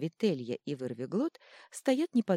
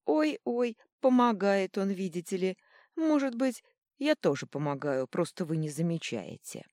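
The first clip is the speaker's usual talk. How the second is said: mocking; 5 semitones higher, 5 dB louder than usual. A narrator's reading. Mocking god teases troll.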